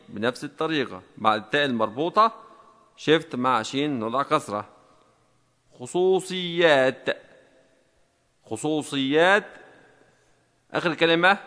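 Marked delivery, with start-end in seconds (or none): 5.8-9.5 drawn-out dictation of one word; slowly repeated dictation word. Shown as a demonstration. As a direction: stretch each syllable for someone typing along.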